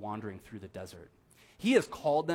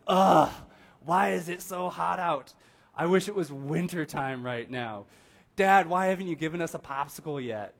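put-on whiny child; 4 semitones higher, 7 dB louder than usual. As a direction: complain like a hot, cranky kid. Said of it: "what do we usually hear".

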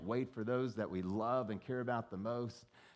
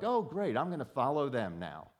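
sarcastic; 3 semitones higher, 3 dB louder than usual. Retold or imitated. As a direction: fake delight dripping with sarcasm. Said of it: "feel like".

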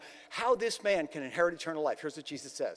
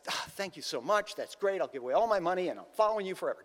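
mock gratitude; faster than usual. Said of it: "Well, the guy says".

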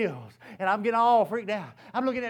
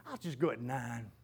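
drowsy thought; 10 semitones lower, 11 dB quieter than usual. Retold or imitated. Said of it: "I'm thinking".

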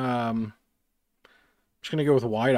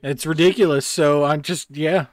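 laughing; 4 semitones higher, 9 dB louder than usual. Real, not acted. Laughing agreement.

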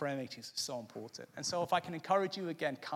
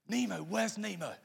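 lightly imitated Australian pelican, higher pitched; Australian accent; 4 semitones higher than usual. Nigel the pelican calling to Nemo, imitated Australian accent. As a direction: put on a bit of Australian accent. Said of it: "he had a really strong Australian accent".

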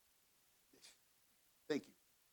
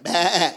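loud mock "baa"; quick, loud sheep imitation; imitated sheep bleat; 6 dB louder than usual. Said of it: "first it's loud. It's like".

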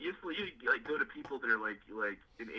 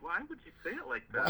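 higher-pitched mock bafflement; dumbfounded; 7 semitones higher than usual. Churchgoers questioning his slip, mock dumbfounded. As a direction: imitate a baffled listener.

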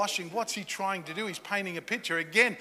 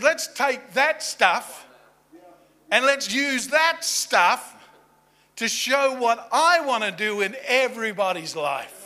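slow, louder and higher proclamation; emphatic declaration; 4 semitones higher, 7 dB louder, slower than usual. Retold or imitated. Jesus announcing his plan to the servants, slow and loud. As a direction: proclaim it like a vow.

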